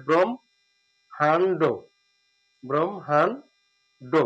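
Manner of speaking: ব্রহ্মাণ্ড said very slowly with ম before হ; slow demo pronunciation. Shown as a demonstration. Teacher modelling ব্রহ্মাণ্ড slowly for students. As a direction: stretch ব্রহ্মাণ্ড, bring the ম first. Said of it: "মটা আগে চলে আসবে".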